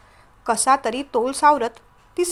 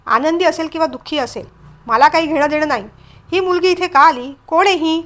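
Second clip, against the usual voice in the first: moderately cross, indignant demand; angry; 2 semitones higher, 3 dB louder than usual. Acted. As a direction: build into mildly heated questions. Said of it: "तो रागानेच म्हणाला".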